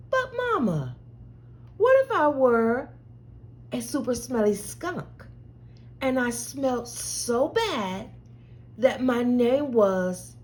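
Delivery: curious little one asking; lightly voiced child. Child asking mama, lightly voiced.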